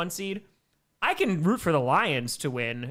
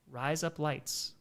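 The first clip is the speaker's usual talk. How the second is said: US accent; 7 dB quieter, slower than usual. Shown as a demonstration. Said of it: "with a U S accent".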